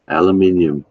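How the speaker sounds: Aluminium said al-yoo-MIN-ee-um, five syllables; proud British aluminium; aluminium British style. Shown as a demonstration. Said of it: "for Americans, it's aluminum".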